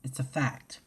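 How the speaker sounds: breathy whispered statement. Real, not acted. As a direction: whisper it as settled truth. Repeated line, first whispered.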